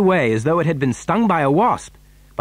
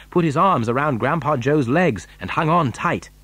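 ordinary delivery, nothing marked

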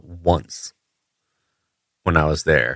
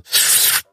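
suction sniff noise. Retold or imitated. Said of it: "and you stick it in there and go".

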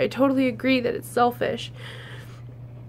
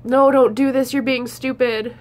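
mock scolding; 5 dB louder than usual. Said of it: "or, like".

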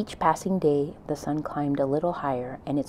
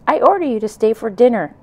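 put-on much higher, louder bossy child's shout; very improper voice; 8 semitones higher, 11 dB louder than usual. A narrator's reading. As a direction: yell it like a bratty kid giving orders. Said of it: "In a very improper voice".

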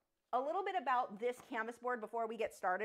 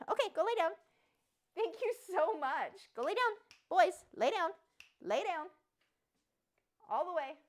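higher, louder firm dog commands; commanding the dogs; 9 semitones higher, 7 dB louder than usual. Real, not acted. Owner sending her two dogs to bed, high firm commands. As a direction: tell the dogs to lie down, sing-song but firm.

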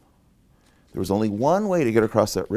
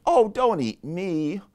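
higher-pitched goat plea; middle goat pleading; 6 semitones higher than usual. Acted. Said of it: "middle Billy Goat Gruff said".

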